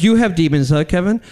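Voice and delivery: mildly mocking retold question; sarcastic. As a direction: needle a friend with light sarcasm. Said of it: "they're sarcastically".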